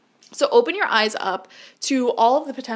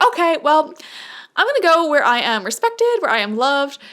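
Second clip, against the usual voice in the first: confident declaration; 5 semitones higher, 5 dB louder than usual. Pretend. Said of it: "you quickly are like".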